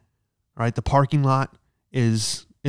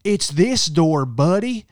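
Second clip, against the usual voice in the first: high, slow, exasperated drawl; disgruntled guest; 5 semitones higher, 4 dB louder, much slower than usual. Retold or imitated. Annoyed hotel guest scolding him at the door, exasperated. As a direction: huff it out like an annoyed stranger. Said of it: "this lady comes out disgruntled".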